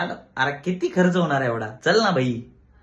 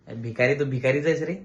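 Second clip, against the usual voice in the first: laughing taunt. Acted. Mocking broke friend with a laugh.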